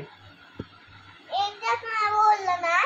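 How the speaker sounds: very slow, firmly spaced refusal; stubborn insistence. Real, not acted. Sulking child refusing her parent, slow and stubborn. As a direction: drag out each word, fed up and final.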